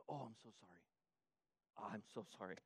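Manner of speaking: hushed sarcastic backpedal; mock apology. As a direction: pretend to grovel, dripping sarcasm. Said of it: "And Jesus goes".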